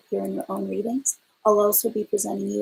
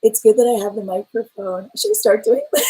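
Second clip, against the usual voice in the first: saucy voice; 5 dB louder than usual. Pretend. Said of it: "we've got the saucy voice going on".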